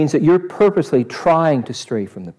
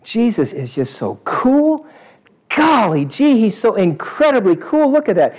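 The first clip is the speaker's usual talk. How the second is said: admiring crowd member; 5 semitones higher than usual. Acted. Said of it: "The crowd said".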